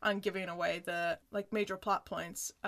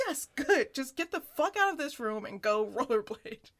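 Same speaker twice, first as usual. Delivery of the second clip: loud, impatient brush-off; a therapist losing patience with a client, mock irritation; exasperated therapist; 3 semitones higher, 5 dB louder than usual. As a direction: shoo the client out of the room.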